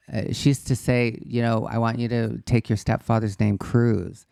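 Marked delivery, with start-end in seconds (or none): 1.7-4.3 put-on mother in a Polish accent; light Polish accent, mother's voice. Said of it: "the best Polish accent I've ever heard".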